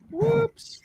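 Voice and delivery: high, airy whisper; whispered oops. Retold or imitated. Onlooker reacting to dropped baby, high whisper. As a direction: let it out as a tiny sheepish whisper.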